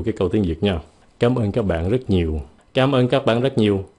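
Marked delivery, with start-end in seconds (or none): 1.2-2.4 warm thanks. Shown as a demonstration. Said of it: "Cái câu thứ nhì nghe ít thông cảm hơn". 2.7-3.8 stiff foreign-sounding Vietnamese, no feeling; flat, unfeeling thanks in stiff Vietnamese; stiff, cold thanks. Shown as a demonstration. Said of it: "câu thứ nhì nghe rất là cứng".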